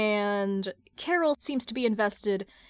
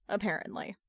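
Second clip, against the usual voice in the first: usual speaking voice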